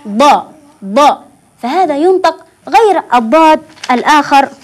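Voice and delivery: ضاء with a heavy emphatic d; emphatic dad. Shown as a demonstration. Teacher shows the children how ضاء is said, heavy and emphatic. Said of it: "فأقول ضاء".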